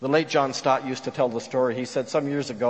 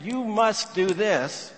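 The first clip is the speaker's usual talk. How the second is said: slow, higher-pitched command; mock demand; 6 semitones higher, slower than usual. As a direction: lay it down as a demand, word by word. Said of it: "was a demand".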